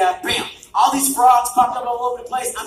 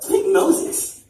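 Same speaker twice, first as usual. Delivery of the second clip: firm, louder no's, then a half-whispered Pick Moses; God overrules the angels; God insisting; 6 semitones higher, 5 dB louder, slower than usual. Pretend. God overruling the angels, firm then half-whispered. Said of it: "God goes".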